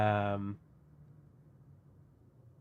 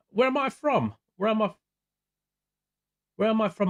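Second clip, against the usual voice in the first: 1 mock surprise; 7 semitones higher than usual. Real, not acted. Reading a chat question aloud, amused.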